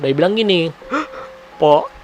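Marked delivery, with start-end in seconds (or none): 1.6-1.9 gasping, tearful plea for help; fake sobbing. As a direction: act a put-on victim, sobs between words. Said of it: "doi lagi acting, lagi bohong". (pura-pura menangis minta tolong)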